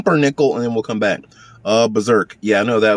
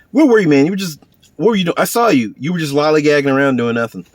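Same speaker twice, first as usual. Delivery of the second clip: higher, louder start, pressing questions; mock accusing scolding; 4 semitones higher, 4 dB louder than usual. Man confronting a friend caught lollygagging, mock accusing. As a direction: confront a slacker in play.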